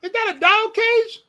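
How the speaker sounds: pause, look again, can't believe it; mock astonishment. Real, not acted. Noticing a cage in the host's room, rising amazed questions.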